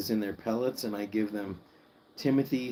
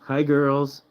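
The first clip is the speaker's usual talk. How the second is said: excited pet talk; 3 semitones higher, 4 dB louder than usual. Real, not acted. Greeting the guinea pigs excitedly.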